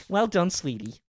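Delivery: sugary imitation of an American; mock American accent. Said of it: "that's Americans in my mind".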